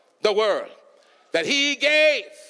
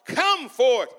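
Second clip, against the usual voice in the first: long, high call of the name, slow; Jesus calling Lazarus from the tomb; 7 semitones higher, slower than usual. Acted. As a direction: call him out of the grave. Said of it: "he called out".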